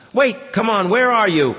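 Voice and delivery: high, urgent call. Acted. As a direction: call after a voice you cannot find. Calling after hidden speaker.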